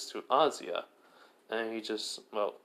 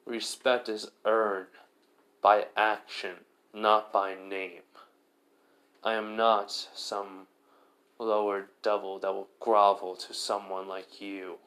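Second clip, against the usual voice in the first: slow, firm and louder; a hint of a stern hero's speech; cold rebuke; 3 dB louder, slower than usual. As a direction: lay down each word with cool contempt. Issei coldly rebukes Riser.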